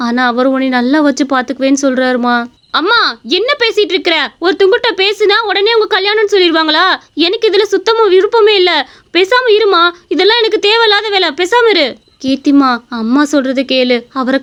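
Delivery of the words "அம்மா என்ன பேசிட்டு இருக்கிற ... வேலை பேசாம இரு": higher, irritated daughter protesting; upset young daughter. Acted. Daughter refusing her mother's marriage talk, higher and irritated. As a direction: snap back at mother like an annoyed young girl.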